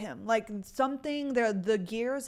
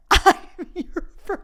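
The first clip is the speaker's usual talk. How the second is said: high, loud, drawn-out imitation of indignation; mock disbelief; 9 semitones higher, 9 dB louder than usual. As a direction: play the offended boyfriend, high and slow. Acting out offended boyfriend, laughing.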